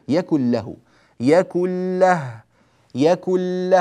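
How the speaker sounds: يكن له said slowly with the nose pinched, showing no nasal hum; nose-held demo. Shown as a demonstration. Teacher pinching his nose to prove no ghunna. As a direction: recite يكن له with nostrils closed. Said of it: "أنا أسد أنفي".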